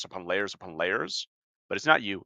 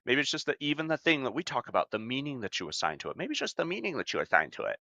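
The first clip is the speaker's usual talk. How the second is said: a lightly voiced condescending know-it-all, fading quieter; mocking the dismissive narrative; 6 dB quieter than usual. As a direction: parrot the "it's just your meaning" line with faint sarcasm. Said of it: "we tell adults this narrative".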